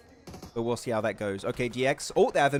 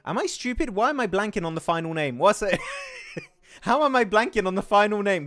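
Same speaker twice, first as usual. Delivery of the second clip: laughing frustration; 5 semitones higher, 3 dB louder than usual. Real, not acted. Laughing at blanking on name.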